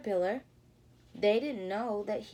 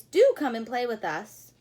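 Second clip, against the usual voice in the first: 1 pleading mice; 10 dB louder than usual. Acted. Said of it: "pleaded the mice".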